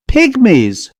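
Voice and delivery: high, startled cry of disbelief; astonished exclamation. A narrator's reading. Van Rieten stunned by the shrunken heads, exclaiming. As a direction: blurt it out in shock. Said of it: "Van Rieten exclaimed".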